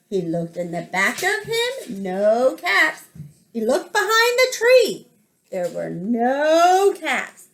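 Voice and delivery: animated read-aloud with drawn-out key words; lilting picture-book narration; children's story reading. A narrator's reading. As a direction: tell it to small children, lingering on the details.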